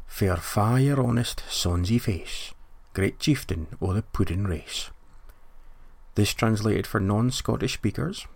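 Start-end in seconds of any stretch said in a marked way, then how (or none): 0.1-4.9 poem recital. Shown as a demonstration. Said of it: "the opening lines of which are as follows".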